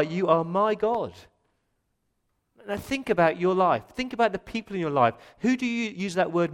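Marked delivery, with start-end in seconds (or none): 0.0-1.1 slow, loud, stress on MY; underlined MY. Shown as a demonstration. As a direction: hammer out MY slowly and loudly. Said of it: "Underline that word".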